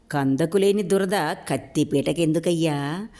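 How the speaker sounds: slow, sarcastic drawl. Acted. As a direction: lay the sarcasm on slowly. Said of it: "వ్యంగ్యంగా అన్నాడు". (నెమ్మదిగా వ్యంగ్యంగా)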